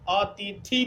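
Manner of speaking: अतिथि with a long ई on थी, wrong; अतिथि, थी held long as a wrong example. Shown as a demonstration. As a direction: stretch the थी in अतिथि. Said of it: "थ में दीर्घ ई".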